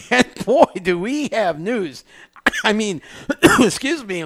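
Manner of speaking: coughs breaking the words; coughing fit. Real, not acted. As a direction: talk through a cough. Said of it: "let me catch my breath here".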